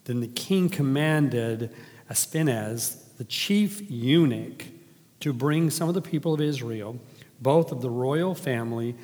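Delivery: measured, formal reading of scripture. Acted. Reads Scripture aloud.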